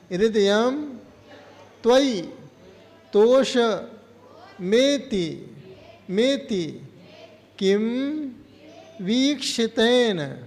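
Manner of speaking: slow, drawn-out verse recitation; recitation for repetition. Shown as a demonstration. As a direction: give each word alone for pupils to echo. Teacher models verse for repetition.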